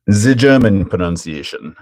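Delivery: "ze German pronunciation" in put-on German; mock German accent. Streamer echoes Dirk's German pronunciation remark, mock German accent.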